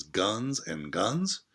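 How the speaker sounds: "Guns and Guns" drawn out slowly, both "Guns" stressed; slow emphatic echo. Shown as a demonstration. Teacher shows the class the echoed words, slow and emphatic. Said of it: "See how that echoes the title?".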